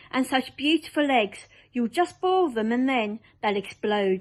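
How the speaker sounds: lively rhyming recital; recited poem. Acted. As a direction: chant the creature verses with gusto.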